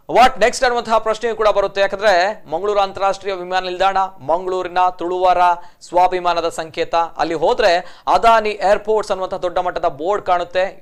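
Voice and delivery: steady, emphatic news anchor delivery; news presenting. Real, not acted. Anchor tells viewers about the airport naming demand, news presenting. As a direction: present the report in measured, projected phrases.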